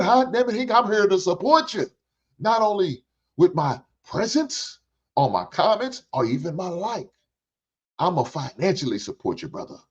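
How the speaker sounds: high, upbeat read of a viewer's super chat; reading viewer's message. Retold or imitated. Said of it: "Generational Love comes through with a ten dollar super chat".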